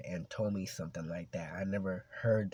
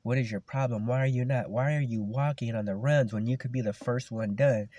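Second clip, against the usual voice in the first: higher-pitched exasperated scolding; retold mad teacher; 3 semitones higher, 3 dB louder than usual. PE teacher demanding why his runner is walking, mad. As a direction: imitate a coach firing indignant questions. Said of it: "He was getting mad".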